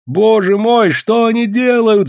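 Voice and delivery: high, loud cry of horror; alarmed cry. A narrator's reading. Woman watching the brawl, alarmed high cry. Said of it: "закричала женщина".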